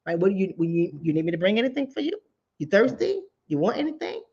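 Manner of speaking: calm them down tenderly; soothing reassurance. Retold or imitated. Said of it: "call back".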